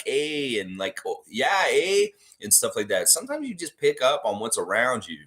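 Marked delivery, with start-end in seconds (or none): 0.0-0.6 lightly put-on Manitoba "eh"; Manitoba accent. Shown as a demonstration. Showing how family visits in Manitoba rub off, light Manitoba accent. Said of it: "talk a little bit more, uh, like". 1.1-2.1 higher, playful Canadian "oh, yeah, eh"; Manitoba accent. Shown as a demonstration. Host imitating talk picked up in Manitoba, put-on Manitoba accent. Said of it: "if I go out to Manitoba".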